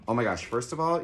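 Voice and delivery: thrilled at what's in the box; excited gasp. Real, not acted. Host opening a gift box for campers, excited.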